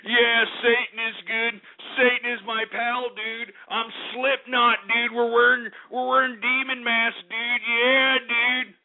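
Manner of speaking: a hint of a brainless headbanger; mock metalhead dude. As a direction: lampoon a dumb metal fan bragging about Satan. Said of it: "you know, emphasizing".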